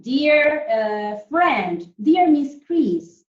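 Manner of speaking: loud, stressed "Dear" at the front; letter greeting demo. Shown as a demonstration. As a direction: say "Dear" loudly, as a letter heading. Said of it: "Do you remember?".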